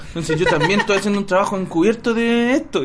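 lightly voiced guilty man making up an undercover story; mock earnest excuse. Podcaster mocks a caught man's lame excuse, half-laughing.

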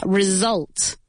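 "Result" with the s voiced as z; buzzed S. Shown as a demonstration. Teacher putting the word back together, "Result" with a vibrating z. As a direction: buzz the s in "Result". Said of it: "una S vibrada".

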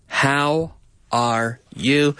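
"How are you" drawn out slowly, words joined; slow linked words. Shown as a demonstration. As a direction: stretch "How are you" without breaks. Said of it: "We're linking the words together".

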